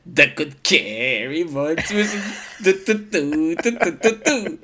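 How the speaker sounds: slow, laughing through a mock quote. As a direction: giggle through the repeated du. Quoting the character, laughing. (lachend nachgesprochenes Zitat)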